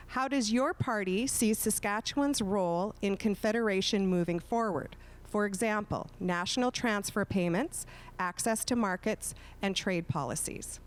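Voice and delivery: measured read-aloud, phrase by phrase; slow, careful reading. Real, not acted. Moderator reads candidates a long question, slowly and carefully. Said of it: "read it very slowly".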